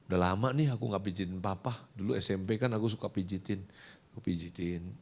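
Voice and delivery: low, soft son's offer; gentle coaxing. Retold or imitated. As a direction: coax dad softly and tenderly, acted. Son gently offers father massage.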